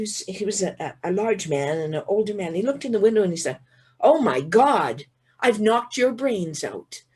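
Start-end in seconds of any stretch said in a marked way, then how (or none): 4.0-7.0 slow, drawn-out horrified exclamation; slow-motion "oh my God" shock; aghast retold exclamation. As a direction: act out the driver's dismay, stretching each word. Acting the horrified truck driver.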